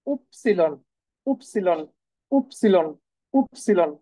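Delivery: উপসিলন said clearly as German Y; German letter name. Shown as a demonstration. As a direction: model উপসিলন syllable by syllable. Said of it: "সেটা হচ্ছে উপসিলন". (German Y-এর নাম উপসিলন)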